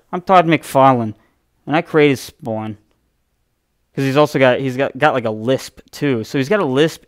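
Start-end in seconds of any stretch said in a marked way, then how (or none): 0.1-2.8 a light mock intro-host voice; lightly voiced awkward comic creator; Todd McFarlane impression. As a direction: play the awkward creator hosting his own intro. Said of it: "that's exactly how he talks".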